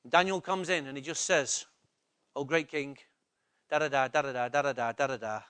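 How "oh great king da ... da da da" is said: mock formal address to king.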